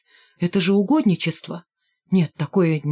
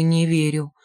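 in despair; 2 semitones lower than usual. Acted. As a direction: drop Не верю in reluctant despair. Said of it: "в отчаянии помотал головой".

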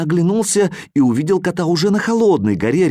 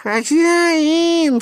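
cat crying out. A narrator's reading. Cat cries for his owner from hot mountain, high cry. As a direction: cry out for your master. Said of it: "снова раздался Кузин голос".

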